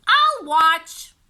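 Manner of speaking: put-on little girl. A narrator's reading. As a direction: chirp it like a stubborn little girl. Beatrice voiced by narrator.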